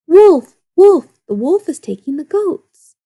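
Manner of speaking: loud, high cry for help; shouting. A narrator's reading. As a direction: yell it across the hills. Boy cries wolf again.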